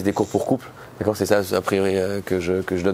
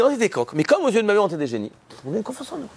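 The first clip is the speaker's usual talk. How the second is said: higher-pitched imitated Moroccan accent; 8 semitones higher, faster than usual. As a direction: play the delighted man with a Moroccan accent, pitched up. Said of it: "son accent marocain".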